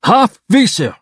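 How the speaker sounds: high alien call. Acted. Hork-Bajir warrior calls to the others in a high alien voice. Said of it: "the Hork-Bajir voice said".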